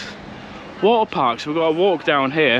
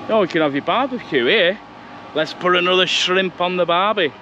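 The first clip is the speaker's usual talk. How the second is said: badly faked Aussie accent, pitched a little up; hammed-up mock Australian accent, tossed off as a joke; terrible Australian accent; 5 semitones higher than usual. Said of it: "That was a terrible Australian accent".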